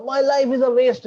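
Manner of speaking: high, loud imitated wail; mock crying. Crying student lamenting to the monk, mock sobbing. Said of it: "he started crying".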